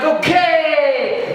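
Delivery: a keen horse yelling yes; eager horse. Retold or imitated. Horse answers the general, pitched high and eager. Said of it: "the horse is like".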